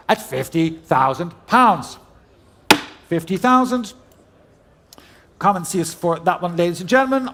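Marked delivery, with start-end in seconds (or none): 0.1-3.9 brisk auctioneer calling out bids. Real, not acted. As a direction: rattle off the bids like a saleroom auctioneer.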